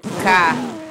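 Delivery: loud Boston "Car" with dropped R; Boston accent. Shown as a demonstration. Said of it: "Boston accents?".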